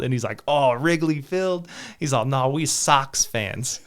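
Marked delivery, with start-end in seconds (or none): 0.5-1.7 put-on slow, higher Chicago accent, scoffing; imitating a Chicago Sox fan, drawn out. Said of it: "he talked like that". 2.2-3.8 put-on slow Chicago accent, laughing through it; a laughing Chicago Sox fan; mock Chicago local, slow and amused. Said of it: "he talked like that".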